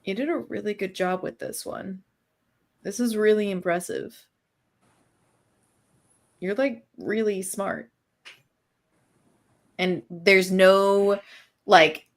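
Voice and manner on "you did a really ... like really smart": softer, earnest, no undertone at all; mean every word of the praise, plainly; quiet, genuine compliment with no hint of sarcasm; sincere. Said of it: "the most genuine you think you might have ever heard".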